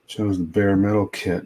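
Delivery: ordinary delivery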